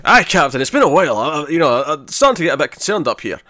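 lightly voiced engineer with rising, bouncy stresses; Scotty. Engineer reporting to the captain after being left waiting, lightly put-on voice. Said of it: "put on a bit of a voice for Scotty".

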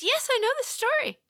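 very high, loud, fast outburst; over-eager interruption. Retold or imitated. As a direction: burst in like an impatient pupil. Pupil butts in once more.

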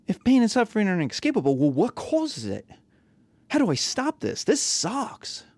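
high-pitched griping question; whiny student. Pretend. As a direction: voice a student fed up and whining. Imagined student complaining.

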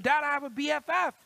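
put-on a boy bursting in with news; excited announcement. Son proudly announcing his new best friend, fast and excited. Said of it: "made another announcement".

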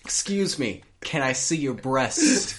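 creepy customer voice. Pretend. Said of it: "over-enunciate the word breast".

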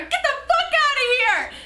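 high-pitched retold shout; angry, strained holler; pissed-off yell. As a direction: yell it as if chasing someone off. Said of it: "I was, like, getting hella pissed".

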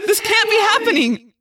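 very high, loud, mounting despair; anguished cry. A narrator's reading. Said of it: "I cried".

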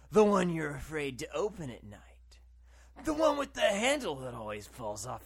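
creepy breathy half-whisper; spooky voice. Retold or imitated. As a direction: lean in and spook them. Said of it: "there's this spooky voice that's like".

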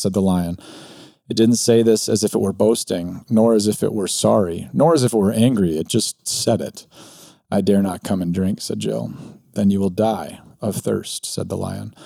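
reading a story aloud with lightly voiced characters. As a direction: read it like a bedtime tale for listeners. Reads Narnia passage aloud.

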